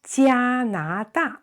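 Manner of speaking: 加拿大 said slowly, tones clear; slow model Mandarin. Shown as a demonstration. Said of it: "teacher models the word".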